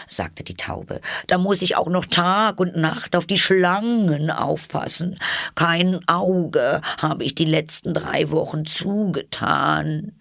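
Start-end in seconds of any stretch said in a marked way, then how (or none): 1.3-10.1 very high bird voice, complaining; a fussy bird listing its troubles; aggrieved pigeon. A narrator's reading. Pigeon voice, held figure.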